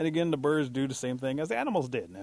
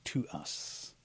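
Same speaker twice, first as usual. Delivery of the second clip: stern questioning; slower than usual. Acted. Eagle interrogates the bat.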